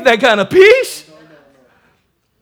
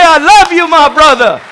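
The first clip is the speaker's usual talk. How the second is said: loving words; 3 semitones higher, 4 dB louder than usual. Retold or imitated. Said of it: "and to say".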